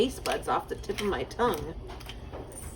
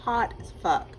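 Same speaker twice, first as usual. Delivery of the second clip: mouth full of hot food; 4 semitones lower than usual. Real, not acted. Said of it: "Burned my mouth".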